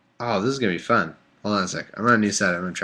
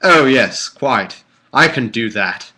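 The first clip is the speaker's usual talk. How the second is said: lightly mocking British yes-man; a hint of stagey British English; put-on British accent; 3 dB louder, slower than usual. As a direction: agree in a rough British accent. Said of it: "So it should be British".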